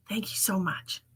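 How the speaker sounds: soft whispered thanks. Real, not acted. Thanking someone quietly, whispered. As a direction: thank them under your breath. Thanking after ordering coffee.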